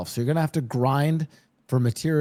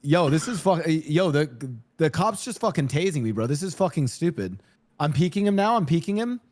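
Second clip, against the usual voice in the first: put-on higher, hyped young gamer; zoomer gamer voice; 3 semitones higher than usual. Shown as a demonstration. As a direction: rant like a tilted teen gamer. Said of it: "try this voice line".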